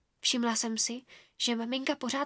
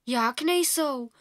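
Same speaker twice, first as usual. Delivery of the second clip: mouth full; much slower than usual. Acted. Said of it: "mumlala Trudka s plnou pusou".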